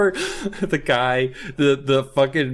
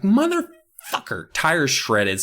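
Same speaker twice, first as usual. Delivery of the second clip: mock curse; 2 semitones higher, slower than usual. Kat crashes her bike.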